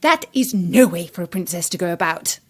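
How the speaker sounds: disdainful queen picking at the princess; scornful stepmother queen. Acted. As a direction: sneer about her, drawing out the opening.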